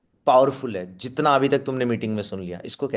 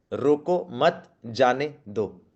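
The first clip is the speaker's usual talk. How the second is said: very slow, रोको, मत, जाने, दो each separate; word by word gaps; much slower than usual. Shown as a demonstration. Trainer showing the line is the same, word-by-word gaps. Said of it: "हल्का सा gap की वजह से".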